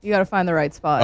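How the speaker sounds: glitchy robot voice; choppy robotic connection. Real, not acted. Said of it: "Oh, you sound like a robot".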